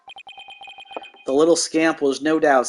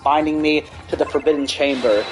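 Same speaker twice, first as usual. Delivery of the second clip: demon king. Acted. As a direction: boom out your return like a demon. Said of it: "the return of the Demon King".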